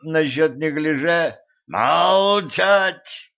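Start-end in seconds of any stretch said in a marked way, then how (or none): 1.6-3.3 high, loud barked command; angry shout. A narrator's reading. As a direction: cut them off, furious. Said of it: "Рассердился Люцифер".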